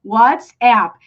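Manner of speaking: "WhatsApp" as "WUTS-app"; two-syllable "WhatsApp" with the a of application; English pronunciation. Shown as a demonstration. Teacher repeating the app's name, English pronunciation. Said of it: "In English, we say WhatsApp".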